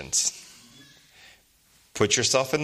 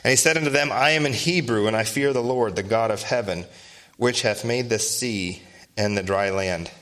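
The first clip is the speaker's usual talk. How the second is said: measured, solemn Bible reading; scripture reading. Acted. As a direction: read it out like King James scripture. Preacher reads scripture aloud.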